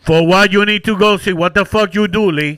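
annoyed dad telling his son off; irritated dad. Retold or imitated. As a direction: scold him like a fed-up dad. Dad scolding son over injury.

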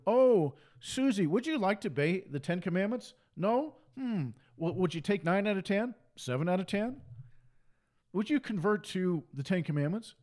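a hint of a pleading salesman, lifted pitch; lightly put-on haggling, questions lilting upward; mock coaxing offer. Mock sales pitch to one individual.

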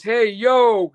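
mock stage "hey yo" call; quoting the celebrity. Fan retelling the star's call from the stage, mock shout. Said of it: "he goes".

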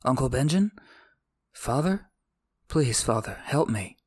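plain reading voice

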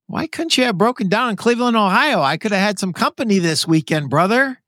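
high, giggly teasing question; chuckling jab at a friend; laughing while teasing. Real, not acted. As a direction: tease him through the laughter. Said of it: "And I'm sorry I'm laughing".

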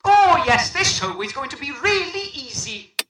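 a recording of the boss's voice, through a speaker; played back like a recording. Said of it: "Let me play it back".

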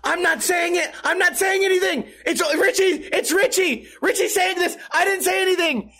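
very high-pitched mock whimper; panicked pleading. Germs on the floor denying he said it, mock panicked pleading. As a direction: imitate a floored man frantically blaming someone else.

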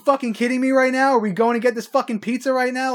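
high, loud mock New York accent; thick New York accent. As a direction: rant like a Long Island woman over pizza. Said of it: "Holly's accent's thicker than yours".

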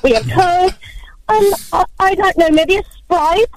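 flustered clerk falling over themselves to help; eager drive-through worker. Retold or imitated. Drive-through worker charmed by a British customer, gushing.

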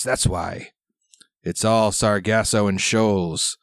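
lightly voiced gruff old sailor; gruff old fisherman. GM plays old pirate sailor.

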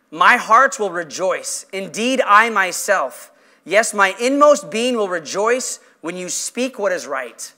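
slow, measured Bible reading; deliberate pulpit recitation; scripture reading. Real, not acted. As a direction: read the verse out slowly, weighting each phrase. Reads scripture aloud.

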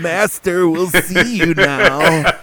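slow, ominous servant voice; creepy butler. Pretend. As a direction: announce it like a sinister butler. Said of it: "the Hand of Fate himself".

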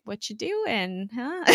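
lightly voiced gentle Coulson; slow soft question. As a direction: ease in gently. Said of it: "He's like".

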